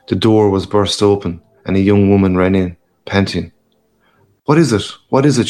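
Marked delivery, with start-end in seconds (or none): 4.4-5.5 high, frightened repeated question; alarmed cry. Acted. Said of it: "she cried".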